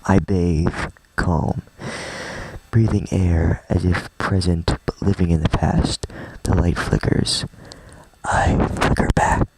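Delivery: hushed, breath-heavy poem recital; poem reading voice. Acted. Streamer reading Yuri's poem aloud, hushed poem reading voice. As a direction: read it slowly in a half-whisper, like a poem. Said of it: "Do you like my poem reading voice?".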